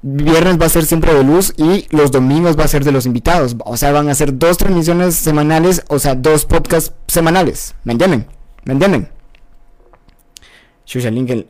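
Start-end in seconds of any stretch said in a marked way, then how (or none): 0.0-9.1 loud, emphatic podcast plug; loud talking. Real, not acted. Host plugging the podcast to listeners, too loud. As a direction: talk too loudly, right into the mic. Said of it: "Ah, no grites".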